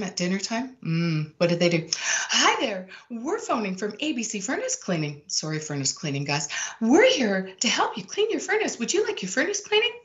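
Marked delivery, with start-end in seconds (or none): 1.9-5.2 mock telemarketer pitch, a bit higher; imitating a hurried sales call; fast high telemarketer. Shown as a demonstration. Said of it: "talking fast and they're talking high". 6.8-9.9 much higher and fast sales pitch; squeaky rushed cold-call voice; mock caller racing up in pitch; fast, high telemarketer. Shown as a demonstration. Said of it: "talking fast and they're talking high".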